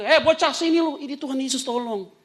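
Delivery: high, loud imitated summons; calling out. Preacher imitating Pak Haji summoning him after the sermon, calling out. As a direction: holler as if beckoning a youngster over. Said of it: "Selesai keluar dipanggil".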